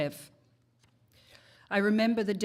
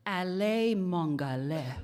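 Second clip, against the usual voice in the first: made-up language. Retold or imitated. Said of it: "in a made-up, contrived language".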